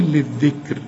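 للذكر ending in a thin, light ra at the pause. Shown as a demonstration. Teacher showing the student the pause on للذكر. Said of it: "يبقى ترقق".

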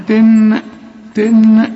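"تن" as a resonant clock note; imitated clock chime. Shown as a demonstration. Teacher asks about a clock, imitating its chime. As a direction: ring "تن" out like a striking clock. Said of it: "عمرك سمعت ساعة".

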